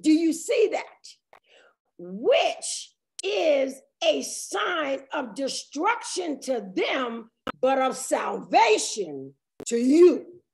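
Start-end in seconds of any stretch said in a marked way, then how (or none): 2.0-10.4 slow, measured Bible reading; weighty, drawn-out pulpit reading; scripture reading. Real, not acted. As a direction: read the verse out deliberately, phrase by phrase. Reads scripture aloud.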